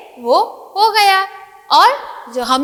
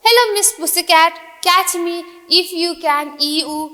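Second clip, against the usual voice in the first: teasing mouse demo; much slower than usual. Shown as a demonstration. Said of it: "जैसे कि आप बोल रहे हो इस तरीके से आपको बोलना है".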